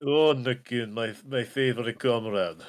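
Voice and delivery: put-on playful Russian accent; a jokey Russian comrade's greeting; mock Russian accent. Player hailing favorite comrade, mock Russian accent. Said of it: "Do your best Russian accent".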